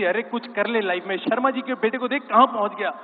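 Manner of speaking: lightly imitated nagging mother, rising in pitch; mock maternal scolding. Mother compares child to Sharma's son, in a mock scolding. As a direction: play at scolding a kid, mildly exasperated. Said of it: "हर एक की mummy डांटती हैं".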